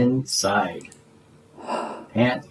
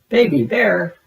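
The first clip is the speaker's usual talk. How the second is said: higher, louder surprised shout; Big Bird shouting at the furry face in the flap; 6 semitones higher, 3 dB louder than usual. Acted. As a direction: call out the name in surprise. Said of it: "Big Bird shouted".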